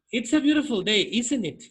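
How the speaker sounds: isn't it dropped in pitch at the end, a falling tag; tag question tune. Shown as a demonstration. Teacher showing a tag question to the student, falling tag. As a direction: let the tag fall like a check. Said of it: "Por ejemplo, cuando dices".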